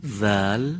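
ذل said with tongue tip at the teeth, voiced; ذل light and thin; letter zal. Shown as a demonstration. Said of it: "با تلفظ چهار حرف آشنا بشیم".

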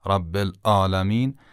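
"العالمین" with a glottal hit in place of ayn; struck hamza. Shown as a demonstration. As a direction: strike the vowel after the lam in "العالمین". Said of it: "با یک حالت ضربه زدن همراهه". («العالمین» با همزه و حالت ضربه)

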